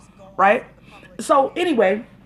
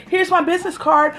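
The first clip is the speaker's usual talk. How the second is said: lightly mocked networkers, pitched higher; imitating eager networkers; 5 semitones higher than usual. People handing off business cards at a party, mildly mocked networking voice. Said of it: "and people just like".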